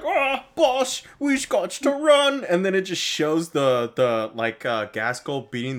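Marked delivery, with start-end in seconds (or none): 0.0-2.4 high, frantic orc yelp; panicked orc boy. Retold or imitated. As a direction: squeal it like a terrified grunt. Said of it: "where it's like".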